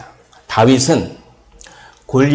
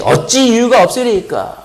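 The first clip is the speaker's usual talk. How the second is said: high-pitched, lightly acted bold question; undaunted retort; 9 semitones higher than usual. Young David answering his big brother back, undaunted. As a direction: answer back, not cowed. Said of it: "주눅들지 않고".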